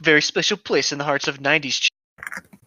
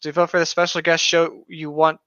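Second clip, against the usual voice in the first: reading Stick's lines. Acted. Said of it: "His full dialogue".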